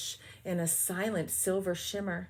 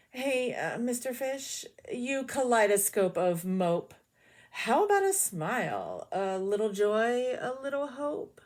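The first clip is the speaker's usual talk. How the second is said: a higher, cheeky squid voice; lightly voiced squid teasing the fish; slightly rude squid; 3 semitones higher than usual. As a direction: poke at him like an impolite squid.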